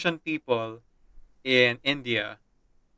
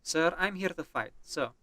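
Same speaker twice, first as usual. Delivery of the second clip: put-on Russian accent. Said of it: "we are playing as a Russian character".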